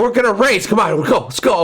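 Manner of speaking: high, pumped-up imitation of a neighbor; eager neighbor. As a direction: hype him up, half mocking. Imitating eager neighbor calling race.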